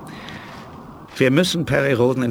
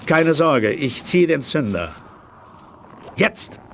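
urgent shout; 5 semitones higher, slower than usual. Acted. Pulling grenade fuse, danger.

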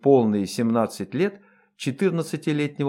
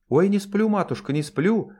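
higher, pleading wail of protest; lamenting; 8 semitones higher than usual. A narrator's reading. Dwarf servant protests to her mistress, wailing high. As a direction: plead like a frightened servant caught out. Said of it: "запричитала та".

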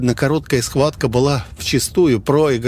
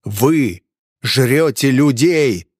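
accusing outburst; 3 semitones higher, much slower than usual. A narrator's reading. Hunter accuses the innkeeper.

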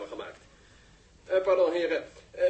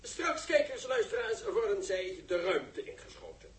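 softer, as if not to disturb the waiting men; hushed commentary; 8 dB quieter than usual. Acted. Commentator to viewers about the waiting crew, hushed. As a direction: drop to a hushed, reverent broadcast voice.

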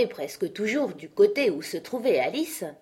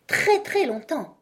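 much higher, slow, drawn-out insistence; stubborn repetition; 10 semitones higher, 4 dB louder, slower than usual. A narrator's reading. Knight insisting to Alice, drawn out. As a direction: stretch out each très. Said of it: "répéta-t-il sans arrêt".

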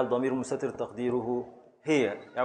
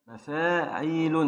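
slow scansion; 2 semitones higher, slower than usual. Shown as a demonstration. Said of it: "معنى ثلاثة سواكن".

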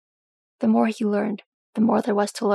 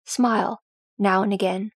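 gently. Acted. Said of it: "Thrain said gently".

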